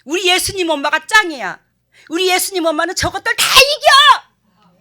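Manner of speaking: high, loud proud shout; imitating a child cheering loudly; child's boast. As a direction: crow it like a brave kid.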